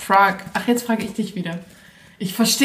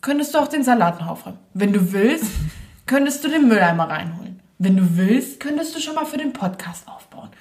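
imitating Jackie. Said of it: "so sagt sie das".

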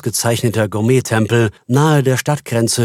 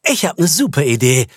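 self-satisfied; 4 semitones higher than usual. Acted. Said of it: "sagte er selbstzufrieden".

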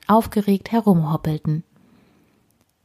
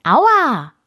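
higher-pitched mild yelp; pained cry; 6 semitones higher, 4 dB louder than usual. A narrator's reading. Girl scratched by squirrel claws on her shoulder, pained cry. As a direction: call out as if scratched. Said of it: "rief Emma".

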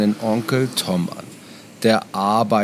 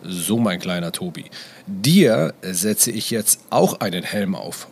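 tender; 3 semitones lower than usual. Acted. Father talking to toddler.

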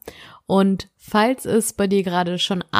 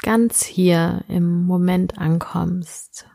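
whispering; slower than usual. Acted. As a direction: breathe the words out as a whisper. Whispered line in meditation.

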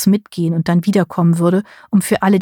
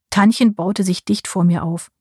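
plain reading voice

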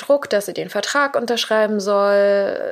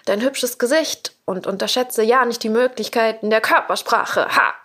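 higher, theatrical witch voice; hammed-up Ursula interrupting Ariel; Ursula cutting in; 3 semitones higher than usual. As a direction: sell it like a scheming sea witch. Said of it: "unterbricht sie und sagt".

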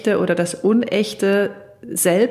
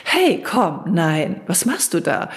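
artificial voice; 2 semitones lower, slower than usual. Shown as a demonstration. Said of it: "Ich kann das mal kurz vormachen, dieser Ton so".

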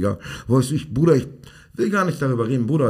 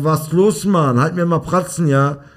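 raised, louder imitation of a demanding boy; cheeky kid quote; 5 semitones higher, 4 dB louder, slower than usual. Quoting an eight-year-old ordering the coach around, lightly mimicked cheek. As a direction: lightly mimic a child bossing an adult. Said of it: "Er sagt, Digga, er sagt".

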